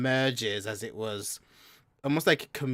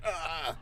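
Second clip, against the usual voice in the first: higher-pitched startled "ugh"; shocked grunt; 6 semitones higher than usual. Acted. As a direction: grunt like a briefly shocked orc. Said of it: "they're just like".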